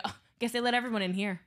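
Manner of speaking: teasing joke. Shown as a demonstration. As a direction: rib them like an old buddy. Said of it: "You go".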